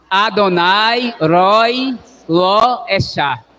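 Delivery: the four words run together in a single phrase; said in one go. Shown as a demonstration. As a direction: say it all at once. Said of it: "Agora fale de vez".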